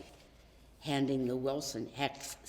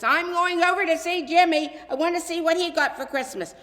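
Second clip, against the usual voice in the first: high, louder and quick; excited shout; 12 semitones higher, 12 dB louder than usual. A narrator's reading. Boy calling to his parents as he dashes out, excited shout. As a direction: call out eagerly on the way out. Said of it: "shouted to his parents".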